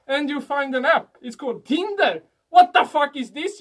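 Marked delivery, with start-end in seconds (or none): 2.5-3.6 mock shock. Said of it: "you think".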